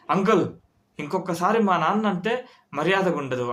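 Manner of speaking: firm, retold warning; serious warning. Son warns the uncle, seriously retold. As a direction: warn the uncle, half-performed. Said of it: "అని సీరియస్గా అన్నాడు మావాడు".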